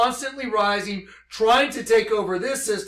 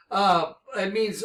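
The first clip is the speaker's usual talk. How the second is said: normal talking voice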